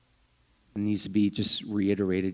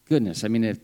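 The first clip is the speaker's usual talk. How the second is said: imagined listener's question; 3 semitones higher, 5 dB louder than usual. Retold or imitated. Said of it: "And I'm sure you're thinking".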